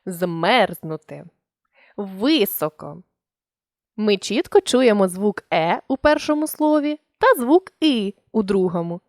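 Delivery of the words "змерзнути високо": each vowel said slowly and distinctly, "Змерзнути" and "Високо"; slow clear demo. Shown as a demonstration. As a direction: spell out the stressed vowels slowly. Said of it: "вимовляється виразно та чітко". (повільна чітка вимова)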